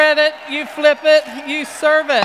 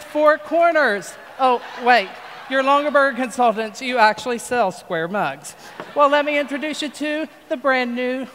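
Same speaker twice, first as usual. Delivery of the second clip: folksy TV pitchman selling hard; infomercial pitch. Acted. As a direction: pitch it like a late-night infomercial host.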